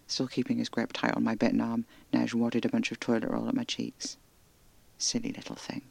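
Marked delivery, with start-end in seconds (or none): 5.0-5.8 soft, voiceless grumble under the breath; grumbling. Acted. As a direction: grumble it, half fond, half cross. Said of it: "he grumbled".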